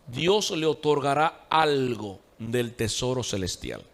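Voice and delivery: lento y grave, palabra por palabra; lectura despacio. Real, not acted. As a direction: lee pausado, como dictando. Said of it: "Lo voy a decir despacio". (dictado lento y más bajo)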